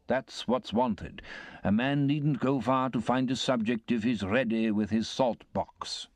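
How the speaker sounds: a hint of a self-satisfied windbag lecturing the table; pompous uncle. Pumblechook holds forth at dinner.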